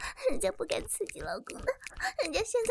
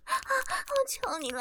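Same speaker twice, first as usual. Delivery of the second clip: slow, higher, drawn-out plea; begging; 6 semitones higher, much slower than usual. Acted. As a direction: stretch the plea out, pitched up. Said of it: "放过我". (拖长声调的哀求)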